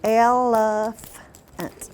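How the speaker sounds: "Elephant" very slow, each syllable apart. Shown as a demonstration. Teacher counting syllables with the group, slow and chopped. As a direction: stretch "Elephant" into el-e-phant. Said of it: "Let's try elephant".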